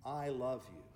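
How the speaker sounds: voice of God. Acted. Preacher gives God's words to the congregation, slow and understated. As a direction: slowly give God's words, letting them settle. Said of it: "God is saying".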